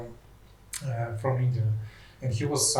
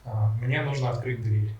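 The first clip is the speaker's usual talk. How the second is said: speaking Russian. Shown as a demonstration. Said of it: "speak to me in Russian".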